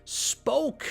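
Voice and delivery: "Spoke" sung out high and pleased; high excited "Spoke"; correct form. Shown as a demonstration. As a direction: reward the right answer with a bright high "Spoke". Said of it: "Es súper raro".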